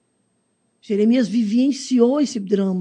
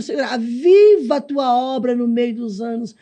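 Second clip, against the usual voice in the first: preaching; 4 dB louder, slower than usual. Acted. Preacher quoting Habakkuk's prayer.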